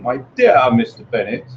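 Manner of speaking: "My dear Mister Bennet" rising, then dropping off at the end; rising then falling tune. Shown as a demonstration. Demonstrating Mrs Bennet's rise-and-fall tune to colleagues. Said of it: "So you have a raising intonation and a, an intonation dropping off".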